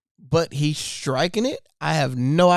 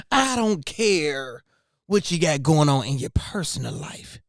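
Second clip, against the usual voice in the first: Stephen A Smith. Retold or imitated. Mimicking a pundit's online rant, lightly dramatic. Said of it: "it's a little dramatic".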